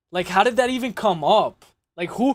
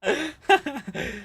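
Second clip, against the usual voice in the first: high laugh; real giggling fit; 7 semitones higher, 4 dB quieter than usual. Real, not acted. Streamer reacting to the sound effect, high laughing fit. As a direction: dissolve into high-pitched laughter.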